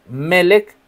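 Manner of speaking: Melech corrected to ME-lech; careful, slow Melech with accent on the first E; stress on first syllable. Shown as a demonstration. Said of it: "tiene acento en la primera".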